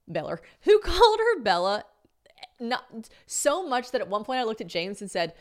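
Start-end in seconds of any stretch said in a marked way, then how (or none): 0.6-1.8 high, loud, laughing through the question. Real, not acted. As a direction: she laughs admitting she kept saying Bella. Laughing at own mistake.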